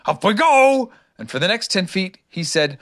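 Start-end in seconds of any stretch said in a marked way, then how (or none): 0.0-0.9 high, loud happy call; happy self-cheer. A narrator's reading. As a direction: sing out cheerfully to yourself. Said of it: "said happily to himself".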